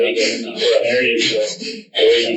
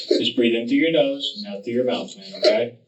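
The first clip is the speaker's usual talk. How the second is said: calming; 4 dB quieter than usual. Real, not acted. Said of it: "tries his best to calm him down".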